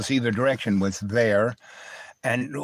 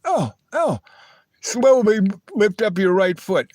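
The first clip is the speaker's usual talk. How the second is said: high, louder, thrilled urging; excited gasp; 9 semitones higher, 5 dB louder than usual. Retold or imitated. Girlfriend on the subway urging him to lift his foot, high and excited. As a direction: gasp then coax the foot up. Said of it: "And she goes".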